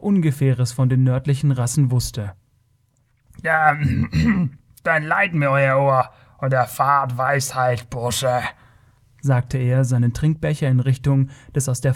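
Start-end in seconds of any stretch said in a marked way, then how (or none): 3.4-8.4 throat-clearing, then slow, pompous character voice; condescending Kothian rogue. Acted. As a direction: lecture the boy like a self-important rogue. (gönnerhafter Kotier, räuspert sich und holt aus)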